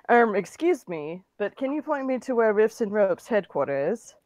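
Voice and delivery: attempted British accent; halting, amateur British accent. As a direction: put on a mild British accent. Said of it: "his accent obviously limey".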